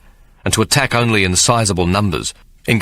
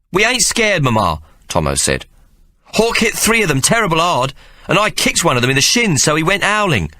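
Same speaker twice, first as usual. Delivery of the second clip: put-on much higher child voice, protesting; a small boy insisting it's not his fault; indignant young Tomo; 9 semitones higher than usual. Tomo protesting to his mother, high indignant child voice.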